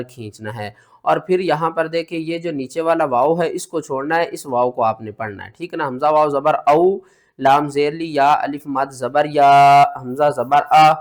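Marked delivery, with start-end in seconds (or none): 5.9-10.9 syllable drill. Shown as a demonstration. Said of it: "teacher spelling syllables".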